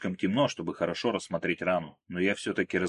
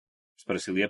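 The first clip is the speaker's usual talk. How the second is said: usual speaking voice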